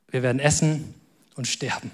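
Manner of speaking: low and soft, dropping away; hushed, heavy line with a pause before the end; quiet resignation. Acted. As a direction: voice the widow's surrender softly. Widow's hopeless line voiced again.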